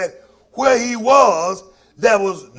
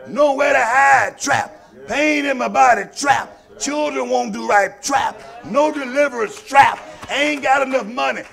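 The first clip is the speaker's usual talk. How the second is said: fiery preaching; 3 semitones higher than usual. Acted. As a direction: preach it, rising and pounding. Preaching at full force.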